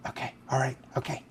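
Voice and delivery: high, soft, airy mummy rasp; a distracted old mummy, softly delighted; hoarse mummy voice. Mummy bursar Pam greeting Phil, high hoarse rasp. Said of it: "a hoarse, indefinite voice".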